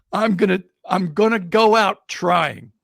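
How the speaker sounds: emphatic, slow-building resolve; determined resolve. Retold or imitated. Batter thinking he will go out trying, determined. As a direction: vow it to yourself, word by word. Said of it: "what he's thinking is".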